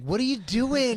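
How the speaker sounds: Larry asks, half laughing; exasperated Larry. Retold or imitated. Larry asking the actors, laughing in disbelief. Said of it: "Larry was like".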